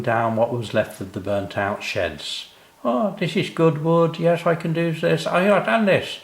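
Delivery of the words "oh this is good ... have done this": murmuring. Acted. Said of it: "murmuring to himself".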